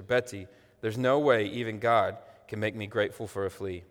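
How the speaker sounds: dramatic book reading aloud to the congregation; sermon reading of a book passage; story reading. A narrator's reading. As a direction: read it like a storyteller, voicing the sisters.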